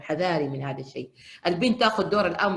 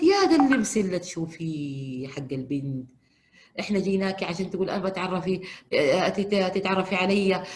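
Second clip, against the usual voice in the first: put-on girlfriend's plea; 2 semitones higher, 4 dB louder than usual. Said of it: "قالت".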